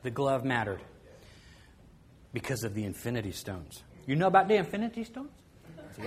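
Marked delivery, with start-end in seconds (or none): 4.0-5.3 put-on brisk, eager kid's question; a lightly voiced eager boy; light kid voice, fast and keen; excited kid. Ivan excited about costume.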